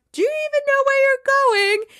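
high, loud yell after him; mock yell. Boss yelling after a departing star player, loud and high. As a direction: shout it down the hall. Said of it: "Rebecca yells after him".

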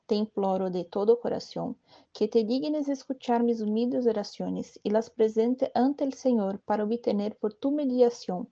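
fervent, steady devotional prayer; prayer recitation. Acted. Praying to Saint Raphael in the novena litany, humble prayer recitation.

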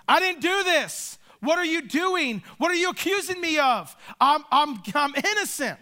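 pleading innocence. Pretend. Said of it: "I'm pleading my innocence".

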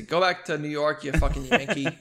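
light New York accent on a retold insult. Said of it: "In a New York accent, somehow".

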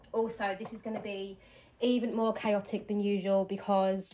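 slightly breathless, talking between breaths. Real, not acted. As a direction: speak a little out of breath. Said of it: "God, I'm out of breath".

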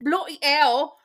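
playful fake British exclamation; hammed-up British; mock British accent. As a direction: join in with a put-on British accent. Joins the mock British banter.

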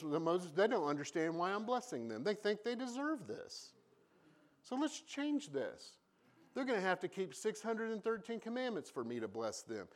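a hint of a scheming God. Preacher voices God telling Moses, lightly acted. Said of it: "God told Moses".

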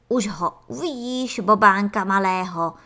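excited, loud proud father; jubilant. Acted. Antlion father cheering to Ferda about his son, excited. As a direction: cheer about the little one. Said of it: "zajásal mravkolev".

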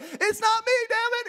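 high-pitched, exasperated outburst; angry cursing denial. Acted. Peter to the little girl, cursing and defensive. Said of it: "He starts cursing".

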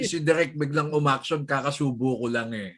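talking through a mouthful; mouth full. Real, not acted. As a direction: still chewing while talking. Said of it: "Choi, lunok muna".

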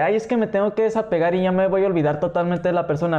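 fast mock fretting; imitated self-pressure. Voicing a mourner's ideas to a friend, mock fretting. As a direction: rattle it off like someone pressuring themselves. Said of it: "Déjate de esas ideas de que".

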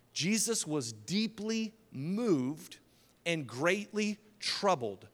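slow, weighted stress on "deeply moved" and "greatly troubled"; emphatic. Real, not acted. Points out the verse's wording.

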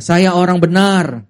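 slow, firm declaration; with conviction. Shown as a demonstration. Congregation declaring to a neighbour, with conviction. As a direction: look them in the eye and mean it. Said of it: "Coba dengan yakin lihat matanya".

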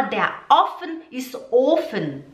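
slow learner's "der offen ist Ofen"; mixed-up vowels. Shown as a demonstration. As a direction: swap short and long O in "Ofen" and "offen". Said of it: "Quando você fala".

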